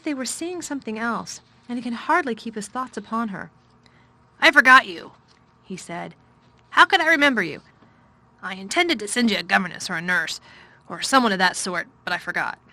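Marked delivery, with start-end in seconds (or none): 4.4-12.6 a weary guardian blurting out his neglect; fretful master's voice. A narrator's reading. Guardian to the child he forgot, loud and fretful. Craven's voice, guilty outburst.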